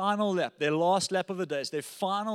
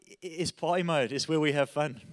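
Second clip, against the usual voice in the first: put-on British racing driver accent; 2 semitones lower than usual. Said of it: "He's like".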